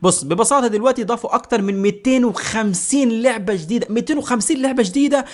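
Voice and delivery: lively promotional pitch; upbeat, emphatic sponsor plug; sponsor ad read. Shown as a demonstration. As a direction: sell the app with energy.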